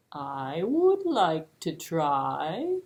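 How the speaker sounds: slow, plodding tortoise voice. Acted. Slow tortoise offering to try, slow and steady. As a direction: drag the words out like a tortoise.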